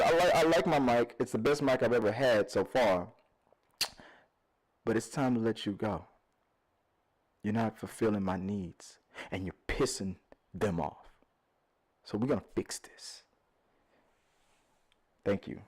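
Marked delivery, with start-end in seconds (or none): 4.8-15.6 low, soft, halting farewell; mock solemn break-up. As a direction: let them down gently, with long pauses. Mock break-up speech to his mic.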